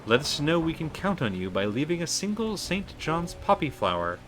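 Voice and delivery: measured, lifted read of a cult's letter; formal recruiting pitch, lightly performed; dramatic letter reading. Acted. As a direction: read out a solemn invitation, building to a loud, drawn-out salute. Reads cult's letter aloud.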